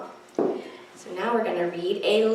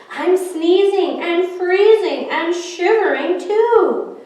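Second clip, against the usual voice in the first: put-on higher, louder girl voice; little girl; 7 semitones higher, 6 dB louder than usual. Little girl worrying about the snowman, higher voice. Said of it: "a little girl said".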